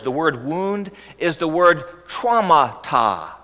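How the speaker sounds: traumata said slowly, TRAU-ma-ta with stress on the first syllable; traumata, pronounced slowly in Greek; Greek word. Shown as a demonstration. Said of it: "interesting Greek words".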